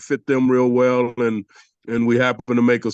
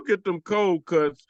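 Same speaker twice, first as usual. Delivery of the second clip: higher, slow catchphrase delivery; commercial catchphrase; 5 semitones higher, 3 dB quieter than usual. Acted. Ex-player quoting his Geico commercial, playful catchphrase. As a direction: lightly replay the ad line, drawn out. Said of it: "for my Geico commercial".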